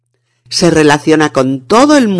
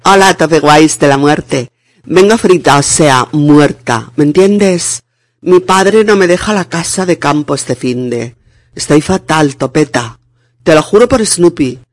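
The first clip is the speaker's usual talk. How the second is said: lightly voiced posh kid; a hint of Spanish valley girl; pijo voice. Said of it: "os intento imitar a un pijo".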